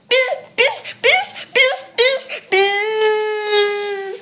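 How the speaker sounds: playful buzzing bee noises. Pretend. Little sister pretends to be a bee, playful buzzing. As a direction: buzz away like a little bee. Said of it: "We're not being bees anymore".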